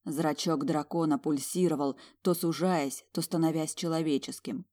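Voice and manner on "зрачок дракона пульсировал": ordinary delivery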